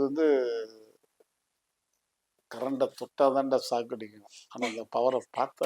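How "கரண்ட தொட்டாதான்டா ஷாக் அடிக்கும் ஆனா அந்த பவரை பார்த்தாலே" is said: swaggering movie one liner. Pretend. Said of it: "உங்களுக்கு பிடிச்ச dialogue பத்தி பேசி காட்டுங்க".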